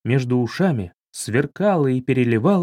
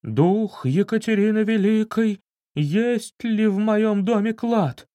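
slow, higher eerie summoning; insistent medium; 7 semitones higher than usual. Acted. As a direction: keep calling the spirit, stubborn and solemn. Seance medium asking spirit. (упорный медленный зов медиума)

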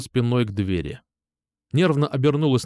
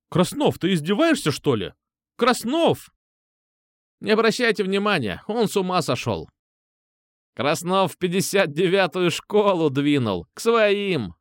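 higher, exasperated woman's voice; exasperated teacher; 7 semitones higher than usual. A narrator's reading. Teacher shouting after a pupil leaving, higher and exasperated. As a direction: throw up your hands at the boy.

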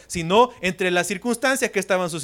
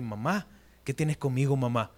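intimate address to mom; 5 semitones lower, 5 dB quieter than usual. Shown as a demonstration. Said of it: "no era una forma íntima como decirle".

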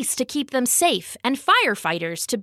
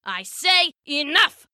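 raised, higher-pitched king's outburst; mock scream; 5 semitones higher than usual. A narrator's reading. King cutting off his grumbling followers, mock scream. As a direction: cry out as an indignant king, without full volume. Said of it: "the king screamed".

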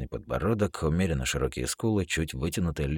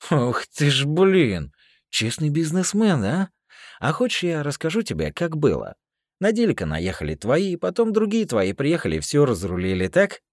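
loud, high mocking con; russian prison slang; 11 semitones higher, 8 dB louder than usual. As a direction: shout him down like a street thug. Hero's heated confrontation in slang.

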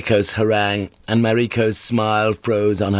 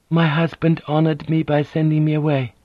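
gentle; 7 semitones higher than usual. A narrator's reading. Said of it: "in the same gentle way".

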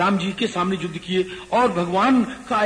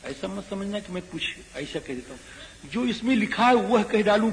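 usual speaking voice

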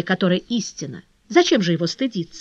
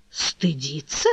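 reproachful; 5 semitones lower, 4 dB quieter, much slower than usual. Acted. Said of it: "воскликнула с упрёком Жанна".

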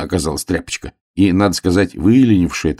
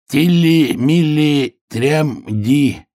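high, word-by-word reading; high-pitched careful sounding out; hare reading aloud; 9 semitones higher, much slower than usual. A narrator's reading. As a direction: read each piece separately, up high. Hare rereads the banner.

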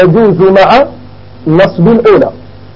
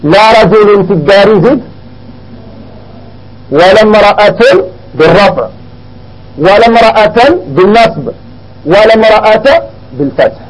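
slow model sentence. Shown as a demonstration. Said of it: "إذا التقي تقول".

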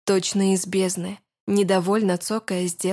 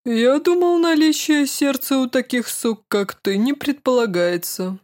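scornful man's voice; 5 semitones higher, 3 dB louder than usual. Acted. Man insults the witch scornfully.

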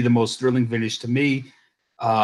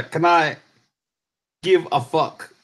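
bad Scottish accent; 4 semitones higher than usual. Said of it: "I can't do a Scottish accent".

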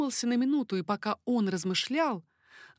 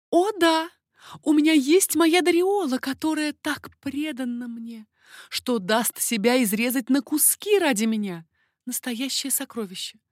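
high, louder, eager lady's voice; eager baroness; 5 semitones higher, 6 dB louder than usual. Acted. Baroness praising her devoted maid to the king, high eager voice. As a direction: gush about the loyal maid.

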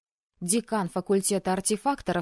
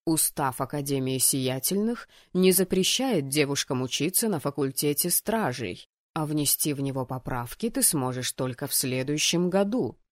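low, composed explanation; composed authority, pitched down; calm rector; 5 semitones lower than usual. Acted. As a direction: lay down the rules calmly, in a lower voice. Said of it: "спокойно ответил ректор".

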